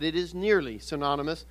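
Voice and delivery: nearly picked out from the phrase; stress on nearly. Real, not acted. Preacher correcting "it is" for listeners, stress on nearly. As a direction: put the weight on nearly. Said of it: "I emphasize the word nearly".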